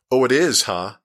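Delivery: mildly confrontational character retort; demanding. A narrator's reading. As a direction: demand an answer, hitting the first words. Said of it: "Cherry demanded".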